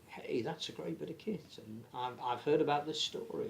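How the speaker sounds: put-on a passing, half-hearted American accent; sports pundit slipping into a sketchy American accent; mock American accent. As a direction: toss off a quick imitation of an American fan's accent. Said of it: "I don't know why I'm doing an accent".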